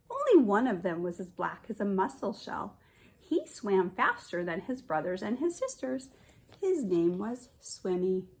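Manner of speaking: put-on lively read-aloud voice for children; storybook narration. A narrator's reading. Teacher reading a picture book to children, lively storytelling.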